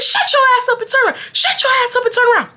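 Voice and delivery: high, fast mock shout; high fast scolding at the nerd; fast angry snap. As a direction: bark it at her quickly. Yelling at classmate, repeated.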